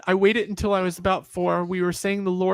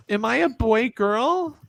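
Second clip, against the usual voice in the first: put-on higher, slow uncertain child's question; timid child; 5 semitones higher, slower than usual. Child asking mom shyly, higher slow voice. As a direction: ask it small and unsure.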